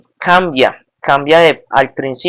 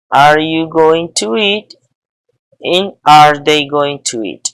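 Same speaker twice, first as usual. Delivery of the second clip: slow, careful reading of each question; patient teacher modelling questions; slow classroom drill; slower than usual. Shown as a demonstration. Teacher drills question forms slowly.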